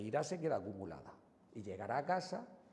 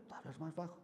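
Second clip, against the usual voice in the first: softer though still a bit high; speaking softer; 4 semitones higher, 7 dB quieter, faster than usual. Shown as a demonstration. Showing parents the calm reply, softer. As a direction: drop the volume, calm.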